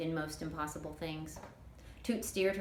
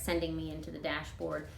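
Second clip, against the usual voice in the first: usual speaking voice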